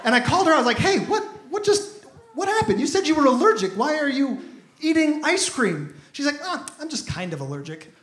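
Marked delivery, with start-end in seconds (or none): 0.8-5.9 incredulous. Retold or imitated. Questioning date in disbelief. 6.4-7.9 much lower and softer, meek excuse; small, lower mock-meek voice; sheepish date.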